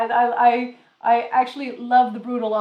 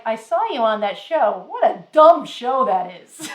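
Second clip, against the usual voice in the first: louder, laughing scoff; grandmother scoffing; 8 dB louder than usual. Retold or imitated. No-filter grandmother scoffs at a morning show, louder and laughing. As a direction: dismiss the show with a chuckle. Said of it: "she'd be like".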